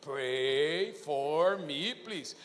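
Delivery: very slow, soft, repeated pleading; rehearsing the phrase. Shown as a demonstration. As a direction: drill the line softly like memorizing. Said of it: "eu fui decorando".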